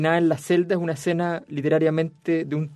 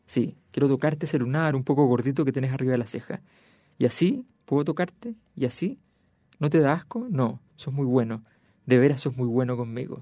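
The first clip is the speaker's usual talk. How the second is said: reading a novel aloud. Acted. Reads the cell dialogue aloud.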